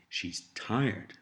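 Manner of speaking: tired weighted at the end of the phrase; stress on tired. Shown as a demonstration. Teacher prompting the learner, stress on tired. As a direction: lean on the word tired. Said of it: "stressing tired".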